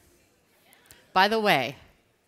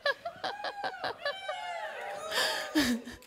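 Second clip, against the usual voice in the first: very high drawn-out laugh-cry; high wailing laugh; 4 dB quieter than usual. Retold or imitated. Speaker reliving bursting into tears, high laugh-cry. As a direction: wail with laughter.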